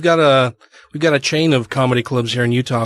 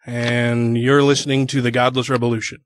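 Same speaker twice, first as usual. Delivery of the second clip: slow, even sample promo read; demo promo read; slower than usual. Shown as a demonstration. Host shows comedian how the drop goes, slow demo read. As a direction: model a station drop for the guest, slowly. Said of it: "so it'd be like".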